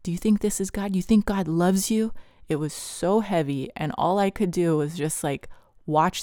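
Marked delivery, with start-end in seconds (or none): 0.0-2.1 mockingly higher-pitched questions; lightly voiced taunting doubter; doubt speaker. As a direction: needle him with doubting questions. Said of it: "the total doubter, the doubt speaker".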